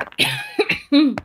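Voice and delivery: sharp high cough; coughing fit. Real, not acted. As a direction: cough hard, then recover. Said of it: "Je tousse encore un peu".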